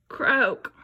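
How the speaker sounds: croaking like a toad. Shown as a demonstration. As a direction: croak it for the children. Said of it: "Who croaks?".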